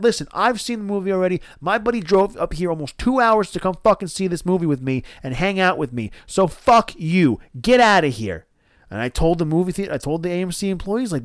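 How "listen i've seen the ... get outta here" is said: indignant, raised-pitch rant ending in a dismissal; re-enacted heated outburst; angry telling-off. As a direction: scold them and send them packing.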